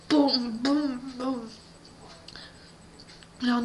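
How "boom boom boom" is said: imitated knocking. Imitates knocking on giant door.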